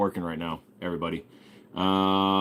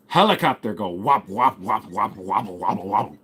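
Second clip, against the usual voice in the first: chopper blades going wop-wop into wobble; mock helicopter. Streamer finishing a joke, helicopter noise. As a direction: pulse the wops like rotor blades.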